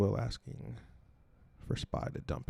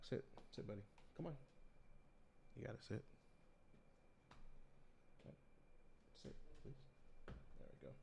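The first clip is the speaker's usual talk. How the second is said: firm dog commands; 27 dB quieter, much faster than usual. Real, not acted. Calming the dog off mic.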